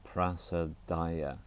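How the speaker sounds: "prasadaya" repeated slowly but lighter. Shown as a demonstration. Teacher repeating the word, slow prasadaya. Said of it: "Four syllables".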